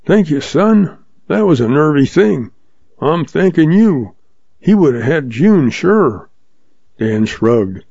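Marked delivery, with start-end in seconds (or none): 0.1-6.3 put-on old man Pop.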